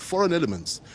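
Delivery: "foreign elements" repeated high, falling at the end; emphatic repeat. Real, not acted. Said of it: "I emphasize that word".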